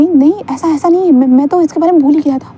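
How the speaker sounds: flustered denial. Retold or imitated. Husband pleads with Wing that he just forgot, flustered. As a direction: scramble to calm an upset partner. Husband defends himself in quarrel.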